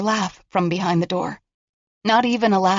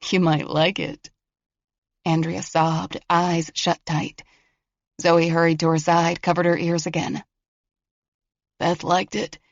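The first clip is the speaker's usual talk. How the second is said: voice of a killer. Acted. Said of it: "The voice of a killer".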